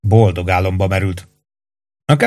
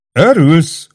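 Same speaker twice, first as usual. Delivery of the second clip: high, startled question; astonished, pitched-up query; taken aback; 7 semitones higher, 4 dB louder than usual. A narrator's reading. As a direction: echo the word in disbelief. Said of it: "hökkent meg Péntek".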